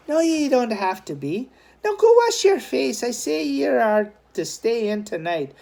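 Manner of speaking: put-on high, bossy young woman; sister Noreen. A narrator's reading. Sister ordering her brother to wash and stay home, high and bossy. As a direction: order him about like a big sister.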